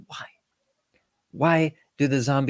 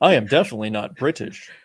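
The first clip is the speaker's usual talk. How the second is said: mock bad American accent; 4 dB louder than usual. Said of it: "is British but is playing an American very badly".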